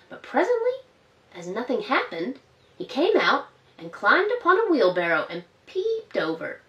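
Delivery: gentle storybook narration for little ones; reading to children. A narrator's reading. Storyteller reading Peter Rabbit to children, gently. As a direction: read it like a bedtime story.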